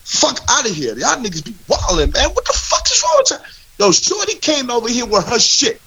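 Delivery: exasperated outburst, pitch jumping up; heated, high-pitched complaining; indignant rant. Real, not acted. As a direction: rant at them in disbelief.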